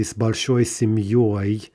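slow, семьёй stressed on the final -ёй. Shown as a demonstration. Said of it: "only in the stressed position".

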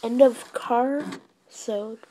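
deep voice. Acted. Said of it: "that's a security system talking".

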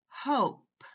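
"hope" said with a long O, like the letter's name. Shown as a demonstration. Teacher repeating the vowel contrast for learners, "hope" with long O. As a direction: give "hope" a high-pitched long "oh" vowel. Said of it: "say it with a long O".

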